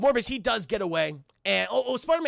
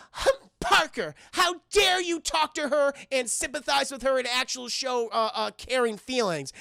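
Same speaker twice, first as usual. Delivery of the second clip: jealous scolding; 3 semitones higher than usual. Retold or imitated. Retelling Mary Jane confronting Parker, jealous and affronted. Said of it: "And she's very jealous".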